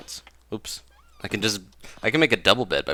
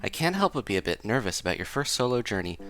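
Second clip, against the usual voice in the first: British mom; faster than usual. Acted. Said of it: "I don't know why she's British".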